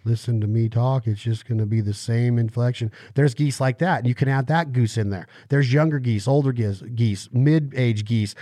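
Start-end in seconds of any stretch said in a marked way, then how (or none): 0.0-2.9 lightly voiced old man from a commercial; hint of an old man, held on one inflection; old guy. Explaining geese that talk like an old guy, lightly imitated. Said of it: "talk like the old guy".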